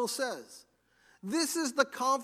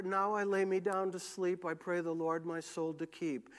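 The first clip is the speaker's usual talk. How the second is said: softer, lower mock bedtime prayer; rote bedtime prayer; 4 semitones lower, 4 dB quieter than usual. Preacher imitating a routine bedtime prayer, low and subdued. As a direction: recite it like a tame child's rhyme.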